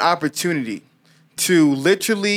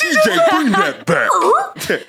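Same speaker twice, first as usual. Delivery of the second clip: high, slow, laughing request; 12 semitones higher, much slower than usual. Real, not acted. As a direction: laugh while calling to the DJ. Asking DJ to replay.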